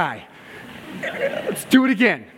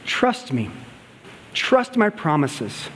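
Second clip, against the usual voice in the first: gentle reassurance; 4 semitones lower, 4 dB quieter, slower than usual. Retold or imitated. God answers the fearful.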